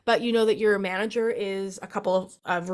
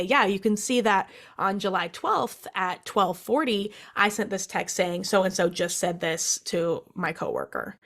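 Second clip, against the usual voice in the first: slow, deliberate. Pretend. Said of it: "you can say".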